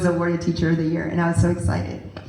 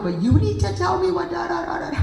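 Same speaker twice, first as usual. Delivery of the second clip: pushy attitude; 10 semitones higher, faster than usual. Pretend. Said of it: "Not with an attitude".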